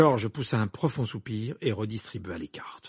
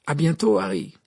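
loud, high goodbye; hearty farewell; 8 semitones higher, 6 dB louder than usual. Acted. Ron to Harry at parting, hearty and loud. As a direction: call out a goodbye.

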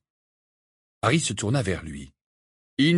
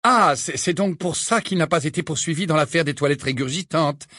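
higher, dry stern teacher; McGonagall's voice; 5 semitones higher than usual. Acted. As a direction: tart remark from a strict teacher.

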